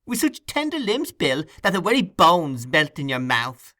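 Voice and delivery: Charley Bates praising the food, high and gleeful; boastful Charley. A narrator's reading. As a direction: boast of each treat like a hawker.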